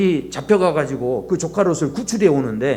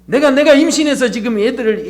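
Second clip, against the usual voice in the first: Moses complaining; 6 semitones higher, 4 dB louder than usual. Retold or imitated. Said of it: "모세가 불평을 하고 있다는 거죠".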